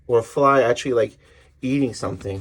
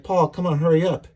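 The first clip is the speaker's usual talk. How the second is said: higher-pitched, mildly acted hurry-up; urgent urging; 4 semitones higher than usual. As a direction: lightly act out hurrying a child along. Acted urging child while running.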